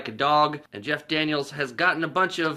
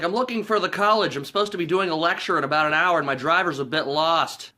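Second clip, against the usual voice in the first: lightly acted, raised-pitch pickup patter; imitated smooth talker; 3 semitones higher, 3 dB louder than usual. Acting Carrey chatting up a woman.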